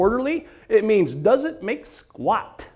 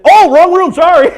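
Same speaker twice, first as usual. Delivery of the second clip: bright, louder, higher oops; prankster's cheerful retreat; breezy oops; 7 semitones higher, 9 dB louder than usual. Retold or imitated. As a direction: toss it off cheerfully. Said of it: "to go".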